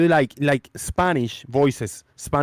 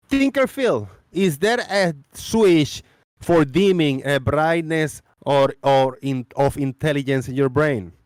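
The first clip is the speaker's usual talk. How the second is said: impersonating a friend; 3 semitones higher than usual. Acted. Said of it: "speak like you and be you".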